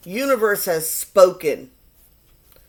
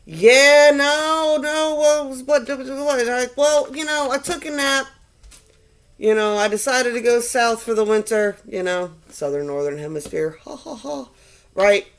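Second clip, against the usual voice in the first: high, breezy goddess voice, just woken from a nap; sassy earth goddess; 4 semitones higher, 3 dB louder than usual. Acted. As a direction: play a flippant goddess back from holiday. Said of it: "the energy of the earth goddess woke up".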